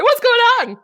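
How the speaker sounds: high loud startled raider voice; mock confused raiders. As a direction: squeak it as a surprised crowd. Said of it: "all these people jump in like".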